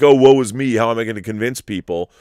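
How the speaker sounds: mock woe. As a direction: wail it like a self-pitying hero, tongue in cheek. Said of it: "it's not like".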